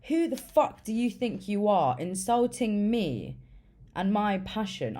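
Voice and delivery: imitating his offended outrage; high, indignant mock outburst; very pissed off. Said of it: "Not Sean got very pissed off".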